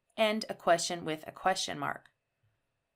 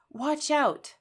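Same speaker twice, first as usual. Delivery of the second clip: watch out, urgent, much higher and louder; exclaimed warning with a sharp fall; strong emotion; 7 semitones higher, 4 dB louder than usual. Shown as a demonstration. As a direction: call watch out like a real warning. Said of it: "This is a lot of emotion".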